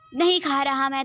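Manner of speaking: grumpy son refuses the medicine loudly; stubborn refusal. Acted. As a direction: refuse it like a cranky patient.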